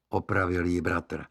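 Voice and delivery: ordinary delivery, nothing marked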